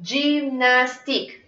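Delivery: "Gymnastique" said slowly in gym-nas-tique beats; slow, clearly divided "Gymnastique"; measured syllables. Shown as a demonstration. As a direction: stretch "Gymnastique" so its three syllables show. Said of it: "¿Cuántas tendrá?".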